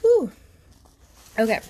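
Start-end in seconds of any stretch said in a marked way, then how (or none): 0.0-0.3 loud high whew after a sip; while sipping a drink. Real, not acted. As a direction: breathe out a big whew after coffee. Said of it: "let me take a sip of my coffee".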